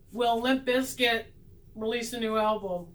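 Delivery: measured attempt at a serious question; trying to be serious. Shown as a demonstration. Reader putting the silly question to the tarot cards, trying to be serious. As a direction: ask it earnestly, slowing at the start. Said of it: "Let me try and get serious".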